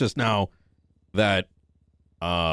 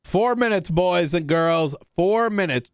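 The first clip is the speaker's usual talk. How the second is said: hyped announcement; 6 semitones higher, slower than usual. Acted. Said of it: "announcing countdown to chat".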